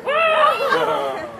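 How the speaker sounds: loud, high whoa; surprised exclamation. Real, not acted. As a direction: cry out in surprise. Bubble hits dog in face.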